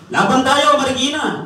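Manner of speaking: high, loud crowd cheer; rally shout. Retold or imitated. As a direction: chant it like a fired-up crowd. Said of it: "Ang dami sumisigaw na ganyan". (sigaw ng nagra-rally)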